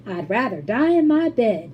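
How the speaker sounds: put-on loud stubborn old woman; refusing at the top of her voice; shout. A narrator's reading. Grandma Josephine shouting her refusal from the bed. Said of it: "shouted Grandma Josephine".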